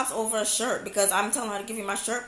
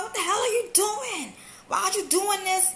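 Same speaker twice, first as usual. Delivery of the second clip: high, outraged demand; shocked yelling; 8 semitones higher than usual. Retold or imitated. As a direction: confront them, appalled. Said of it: "And I'm just like".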